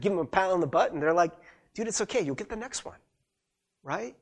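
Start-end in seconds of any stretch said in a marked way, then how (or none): 1.7-3.0 higher, soft consoling voice; supportive teammate. Acted. Good teammate to player who missed a free throw, gentle reassurance. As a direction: console lightly, trailing off quieter. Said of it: "You see the good teammates".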